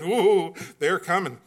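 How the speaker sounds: put-on a touch of a giddy little girl; little girl excited. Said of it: "She's just like".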